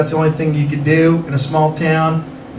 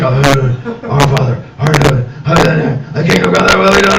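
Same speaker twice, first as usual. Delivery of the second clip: mumbled team prayer; 4 semitones lower than usual. Retold or imitated. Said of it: "All the team comes in".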